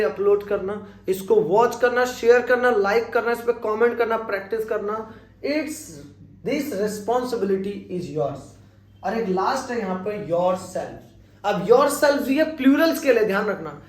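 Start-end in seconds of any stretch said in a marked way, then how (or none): 5.4-8.4 slow, with yours drawn out and falling at the end; slow model sentence. Shown as a demonstration. Teacher slowly modelling This responsibility is yours. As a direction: lean into yours as the answer word.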